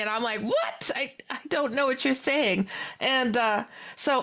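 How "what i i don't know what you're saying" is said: high, baffled "what?"; retold confusion, pitched up. Teller replaying confusion at friend's half-Spanish, baffled.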